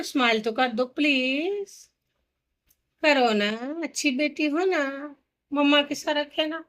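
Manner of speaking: soft, slow coaxing; tender apology. Real, not acted. Mother apologises to her upset child for scolding, softly coaxing.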